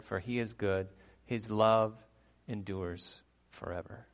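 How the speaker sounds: declaimed psalm, each line starting strong and settling; scripture reading. Acted.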